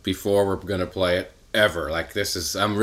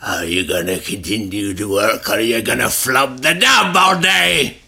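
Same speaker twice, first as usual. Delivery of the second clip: put-on old-timey voice. Host scolds a slacker at work, old-timey voice. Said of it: "In an old-timey voice".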